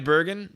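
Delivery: Bergen with a hard G. Shown as a demonstration. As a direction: say Bergen with a G as in get. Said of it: "I'm going with Bergen".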